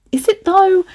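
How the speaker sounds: high, disbelieving question; incredulous. Real, not acted. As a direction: doubt it out loud. Questioning own writing.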